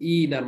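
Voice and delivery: "ইনার" with long ee; pronounced like ina. Shown as a demonstration. Teacher contrasting with the dual, pronouncing "ইনার" with long ee. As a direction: say "ইনার" as ee-nar. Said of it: "মতো করে উচ্চারণ হবে".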